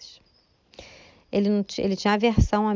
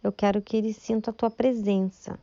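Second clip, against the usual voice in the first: retold prayer; 2 semitones higher than usual. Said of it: "falei assim".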